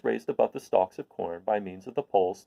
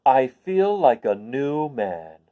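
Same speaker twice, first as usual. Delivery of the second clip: slow, louder; lightly voiced slow contentment; pleased scarecrow; 5 dB louder, much slower than usual. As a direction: savour the relief slowly.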